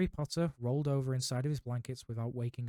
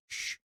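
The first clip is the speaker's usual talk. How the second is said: hissed shush; 4 dB quieter than usual. A narrator's reading. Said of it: "hissed Professor McGonagall".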